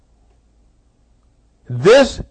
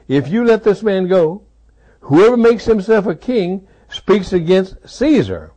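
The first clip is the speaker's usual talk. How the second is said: threatening crowd; 6 semitones higher, 3 dB louder than usual. Acted. Crowd's threat repeated, louder.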